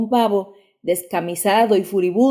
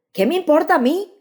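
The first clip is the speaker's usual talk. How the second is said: a cry much higher; desperate shout; 9 semitones higher than usual. A narrator's reading. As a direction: shout it back at the father. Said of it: "gritó Gerlando".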